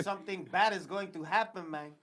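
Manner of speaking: low, quiet fake Hispanic accent; hammed-up Hispanic movie accent, kept low; bad Hispanic accent. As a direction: do a poor Hispanic tough-guy accent. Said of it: "did you hear this nigga's Hispanic accent".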